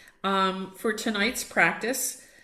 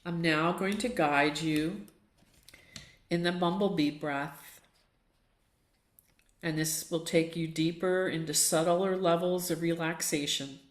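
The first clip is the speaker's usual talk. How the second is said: calm, unhurried guidance with long pauses; guided meditation. Acted. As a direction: lead them gently into stillness, phrase by phrase.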